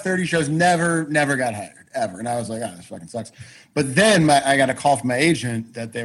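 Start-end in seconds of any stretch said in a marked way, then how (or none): 2.6-3.3 dejected. Retold or imitated. Retelling dejection after endless rejections.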